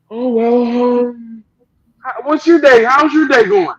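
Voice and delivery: high, breezy mock chitchat; mock polite small talk. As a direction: ask cheerily about the day as if nothing's wrong. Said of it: "everybody's just looking at, like".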